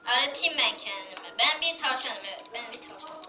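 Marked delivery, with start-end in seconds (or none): 2.5-3.2 squeaky little squirrel voice; chipmunk voice. Pretend. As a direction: talk like a tiny chipmunk. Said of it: "O sincap sesi".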